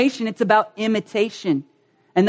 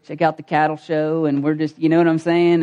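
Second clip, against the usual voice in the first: lower, easygoing Southern country talk; Southern accent; 4 semitones lower than usual. Shown as a demonstration. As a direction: play up a small-town Southern accent. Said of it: "we just slid right back into it".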